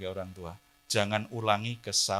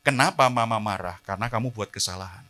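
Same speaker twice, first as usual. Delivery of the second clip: calm mother explaining; 4 dB louder than usual. Retold or imitated. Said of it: "Harus dijelaskan".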